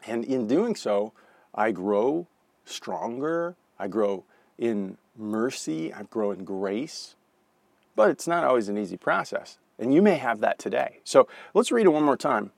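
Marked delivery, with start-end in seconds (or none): 1.5-7.2 slow tender build. Real, not acted. Sermon climax, slow fading.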